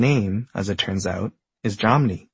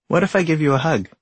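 alien voice; 6 semitones higher than usual. Acted. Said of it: "asks the alien".

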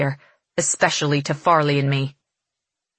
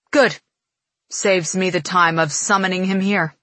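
cocky. Acted. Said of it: "He grins easily".

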